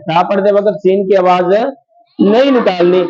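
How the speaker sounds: slowed, deliberate restatement; teacher stressing the warning; slow emphatic rule. Shown as a demonstration. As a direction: spell out the rule word by word. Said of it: "یہ چیز کا خیال رکھنا ہے".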